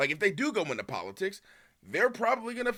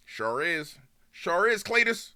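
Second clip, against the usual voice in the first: Southern racist; 3 semitones higher, slower than usual. Acted. Mocking Southern racist agreeing.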